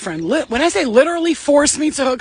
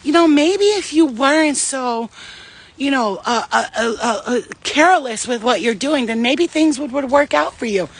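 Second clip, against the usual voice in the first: passive-aggressive. Retold or imitated. Passive-aggressive person talks to you like this, falsely sweet and condescending. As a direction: talk down to them with feigned concern, hesitating mid-way. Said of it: "they talk to you like this".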